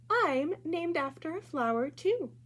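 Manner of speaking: a cheerful reveal, lifting at the end; teacher's reveal. Acted. Music teacher surprising her students, high bright voice.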